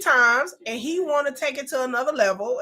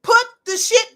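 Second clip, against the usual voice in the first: louder, scolding the screen; mock yell at screen; 3 semitones higher, 5 dB louder than usual. Real, not acted. Vlogger scolding Ashley on screen, mock yell. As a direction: tell her off through the screen.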